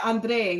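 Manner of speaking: "Andre" lightly mimicked with stress on the last syllable; imitated accented Andre. Complaining about her pronunciation, lightly imitated "Andre". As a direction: copy her "Andre" as ahn-DREY, mildly. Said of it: "she's like".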